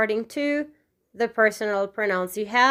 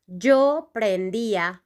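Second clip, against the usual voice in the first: slow repeated pronunciation. Shown as a demonstration. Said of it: "conjugate this verb in this way".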